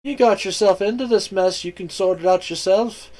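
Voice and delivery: high, scornful snap; contemptuous retort. Acted. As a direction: spit the words out. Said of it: "all but spat".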